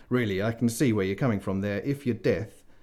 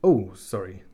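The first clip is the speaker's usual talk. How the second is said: sheepishly; 4 dB louder, slower than usual. Acted. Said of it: "said Death sheepishly".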